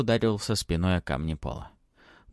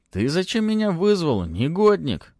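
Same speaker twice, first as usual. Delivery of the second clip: rustling voice; 9 semitones higher, 5 dB louder than usual. Acted. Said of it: "прошелестело у него над ухом".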